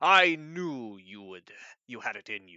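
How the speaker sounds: loud, slow, rumbling giant bellow through laughter. Voicing a giant who holds the orb aloft: giant's bellowing laugh while talking. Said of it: "bellows, and his, like, laugh kind of, like, rumbles the ground".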